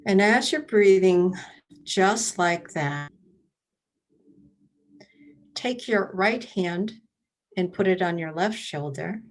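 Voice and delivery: meditation leader with long pauses between prompts; guided meditation. Real, not acted. Leading library attendees through breath and body awareness, guided meditation. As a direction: guide listeners step by step, leaving room to breathe.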